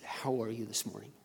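soft, low-key question; said quietly. Retold or imitated. Pastor quietly checks on a store worker, quietly. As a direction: ask it gently, keeping the volume down. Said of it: "I said it quietly".

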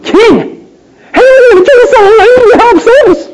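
barge in with it; blunt demand. Pretend. Esther bluntly demanding of the king, brash. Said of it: "didn't go right to the king and say".

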